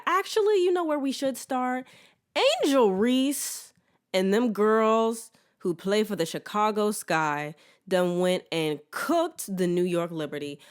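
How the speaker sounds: excited. Real, not acted. Excited jump into sports topic.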